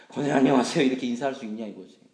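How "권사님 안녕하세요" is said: loud, cross hello; scowling greeting. Acted. Teacher greeting deaconess while still cross, loud scowling hello. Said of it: "인상 쓰면서".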